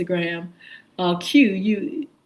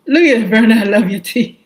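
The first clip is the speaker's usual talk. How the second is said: delighted call-out; 9 dB louder, much faster than usual. Real, not acted. Delighted shoutout to viewer Vernon.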